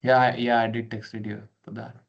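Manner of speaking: on a video call. Real, not acted. Remote participant replies over call.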